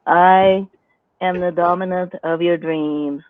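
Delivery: a half-hearted domme through bad posture; a lightly played, sagging dominant; slumped dominant voice. Shown as a demonstration. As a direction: try to command while sagging. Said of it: "dominant voice".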